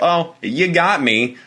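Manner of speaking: high, slow mock good sport; a breezy laughing-it-off line; playful. Imagining a guy taking the prank lightly, high and drawn out. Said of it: "that's not like a".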